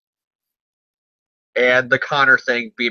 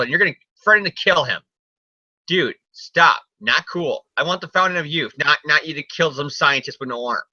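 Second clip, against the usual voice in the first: mock mobster scolding; 4 semitones higher than usual. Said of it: "Silvermane slaps Marco and goes".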